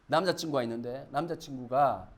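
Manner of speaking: normal talking voice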